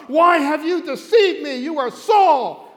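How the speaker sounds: high, loud dramatic accusation. Acted. Woman recognises Saul and accuses him in a loud voice. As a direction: cry it out, slowing on the last words. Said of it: "with a loud voice".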